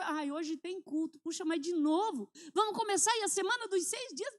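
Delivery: a lightly whiny, put-upon sigh; mock whining. Preacher mimicking a member tired of church, whiny. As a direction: grumble about going to church again.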